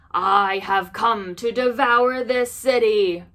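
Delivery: growl. Acted. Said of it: "growled Nian".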